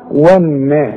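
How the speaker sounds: والنا with a thin و; و kept light before a heavy letter. Shown as a demonstration. Teacher models the correct والنا. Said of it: "ادي كل حرف حقه".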